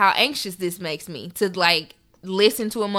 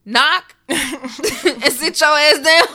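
laughing mockery; 7 semitones higher, 8 dB louder, slower than usual. Mocking dad's threat, laughing.

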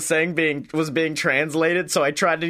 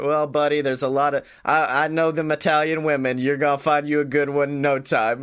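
gruff PI; 3 semitones lower, faster than usual. Retold or imitated. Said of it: "Scotty Moore, private investigator".

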